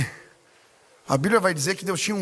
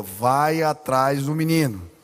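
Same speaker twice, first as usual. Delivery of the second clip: lower, slow and solemn; voice of the Holy Spirit; 5 semitones lower, slower than usual. Retold or imitated. Holy Spirit telling the pastor mid-sermon to go, low and slow. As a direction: speak it as a grave command from above. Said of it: "o Espírito Santo falou".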